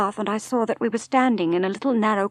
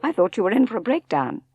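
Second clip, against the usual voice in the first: brisk, blunt sister; 5 dB louder, faster than usual. Acted. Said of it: "said Beatrice".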